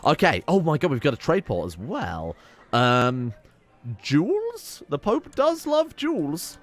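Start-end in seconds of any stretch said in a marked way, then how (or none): 4.0-6.6 mock Pope voice. Joking about the Pope's tastes.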